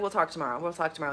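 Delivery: sleepy brush-off. Retold or imitated. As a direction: mumble it half asleep.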